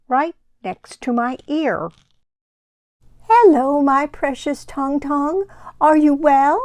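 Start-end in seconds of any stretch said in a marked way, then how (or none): 3.4-6.6 a lightly voiced loving grandma; a hint of a sweet old grandmother; Grandma's voice. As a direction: greet her grandson tenderly. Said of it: "It's Grandma's voice".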